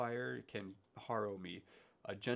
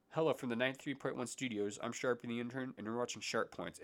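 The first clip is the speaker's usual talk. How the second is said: show intro voice; 3 dB louder, faster than usual. Retold or imitated. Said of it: "How do Sharp Points go?".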